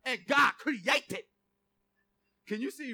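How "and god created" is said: slow drawn-out crooned opening; a funk singer's reading. Retold or imitated. Preacher joking how a funk singer's Bible would open, crooning. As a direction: stretch it like a funk singer. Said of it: "That's how it opens up".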